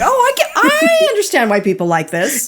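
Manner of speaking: awed gush. Retold or imitated. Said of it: "And you're like".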